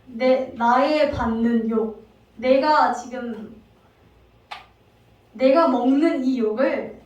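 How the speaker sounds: slow, loud, indignant complaint; angry wife. Acted. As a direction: spit out each word in slow fury. Angry Sarai voiced by preacher. (화가 난 아내의 느리고 큰 목소리)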